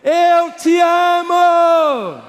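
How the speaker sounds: very high, loud, slow Eu te amo; shouted love call. Shown as a demonstration. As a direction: shout it out long to the echo. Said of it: "vou falar um eco mesmo". (grito alto e arrastado de amor)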